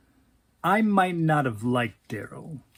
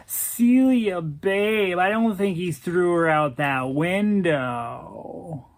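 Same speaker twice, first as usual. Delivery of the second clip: put-on placating boyfriend; 2 semitones higher, slower than usual. Boyfriend soothing her, voiced.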